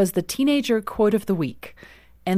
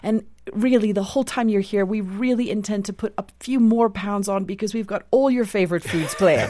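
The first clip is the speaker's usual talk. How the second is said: put-on dad's loving South African accent; imitated South African British accent, welcoming her home. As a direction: do a doting father with a South African British lilt. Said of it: "in his beautiful South African British accent".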